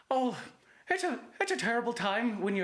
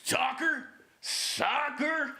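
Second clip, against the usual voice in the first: high, incredulous Southern scoff; a hint of Southern, pitched up in disbelief; Southern accent; 4 semitones higher than usual. Southerner scoffing at soccer to friends, high light Southern accent.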